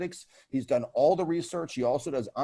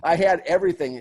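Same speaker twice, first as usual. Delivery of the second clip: laughing; 4 semitones higher, 9 dB louder than usual. Real, not acted. Laughing while recalling the proposal.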